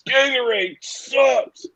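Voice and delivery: put-on high, slow country boy voice with a rising end; Water Boy impression. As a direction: whine it slowly like the film's dim hero. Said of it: "Kyle probably hears guys from the Water Boy".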